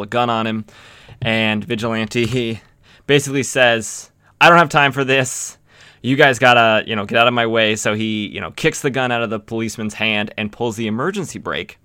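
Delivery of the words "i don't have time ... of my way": louder, impatient hero line; a touch of gruff action-hero impatience; impatient brush-off. Retold or imitated. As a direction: push them aside, no time to argue. Vigilante brushing off armed officers.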